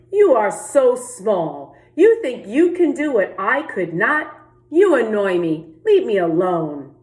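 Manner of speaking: loud, annoyed snapping at the small frog; rude rabbit. Acted. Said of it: "the rude rabbit".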